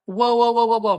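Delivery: loud, rising whoas of disbelief; loud stunned exclamation; shocked whoa. Real, not acted. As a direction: call out whoa, whoa like the theater gasp. Shocked at Hailee Steinfeld's line.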